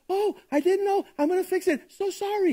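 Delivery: mock apology. Sinner excusing himself to the pastor, mock sheepish pleading. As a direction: imitate someone excusing themselves, half-hearted. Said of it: "the attitude is one of a disposition of".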